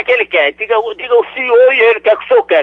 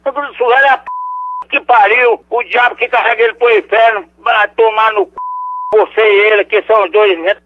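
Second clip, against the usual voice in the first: outraged, cursing them both; indignant cursing. Real, not acted. Insulted old man curses the prank caller, indignant. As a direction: spit the insult back, then trail into muttered scorn.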